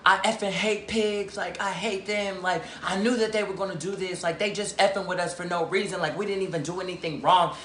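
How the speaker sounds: hushed, high-pitched mock rant, words tumbling out; friend going off. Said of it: "Eli is in the seat tripping, like, going off".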